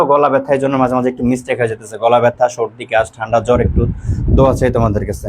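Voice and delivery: low, subdued voice with a cold; unwell, sore throat. Real, not acted. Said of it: "ভাইয়া আসলে একটু অসুস্থ তো". (অসুস্থ গলায়, নিচু স্বরে)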